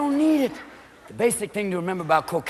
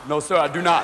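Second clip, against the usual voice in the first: lowered lunk answering; dumb big player; 6 semitones lower than usual. Retold or imitated.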